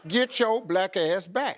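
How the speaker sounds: "Get your black ass back" spelled out slowly, laughing; slow it right down; slow laughing demo of the line. Shown as a demonstration. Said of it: "you just say it real fast".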